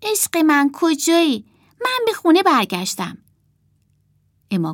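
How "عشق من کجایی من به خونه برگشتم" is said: high, projected stage recital; theatrical line reading. Acted. Martha reluctantly reading Emma's words for the returning sailor, declaimed high. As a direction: call out as if searching for a love.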